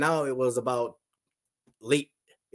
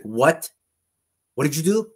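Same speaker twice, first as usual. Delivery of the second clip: retold startled question; 3 semitones higher, 5 dB louder than usual. Retelling wife's startled reaction.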